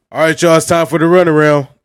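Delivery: very loud, yelled, host-style announcer shout. Kicking off the runaround segment for everyone listening, yelling. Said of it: "Why are you yelling?".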